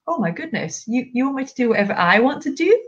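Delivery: a dog thrilled at its sudden freedom; voicing the dog. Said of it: "the dog goes".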